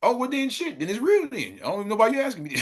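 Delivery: high-pitched, breaking into a laugh; amused exasperation. Real, not acted. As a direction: say it high, about to crack up. Jokes, then bursts out laughing.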